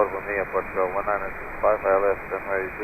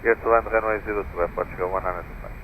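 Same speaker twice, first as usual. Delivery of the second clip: pilot over the radio; 11 semitones lower than usual. Real, not acted. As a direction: read back over VHF radio. Pilot readback on tower frequency.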